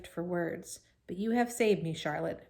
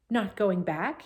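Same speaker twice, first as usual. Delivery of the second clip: louder, stunned outcry; crying out; 5 dB louder, slower than usual. Acted. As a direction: blurt it out in alarm. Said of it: "he cried".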